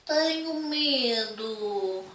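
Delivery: slow, small frightened voice; scared little bear. Acted. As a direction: say it timidly. (voz assustada)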